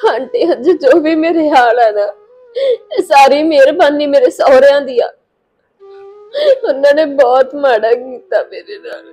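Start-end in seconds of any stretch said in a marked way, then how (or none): 2.5-9.0 crying while explaining; weeping, wronged daughter-in-law; tearful confiding. Acted. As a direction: let sobs break into the complaint. Weeping woman confides her mistreatment.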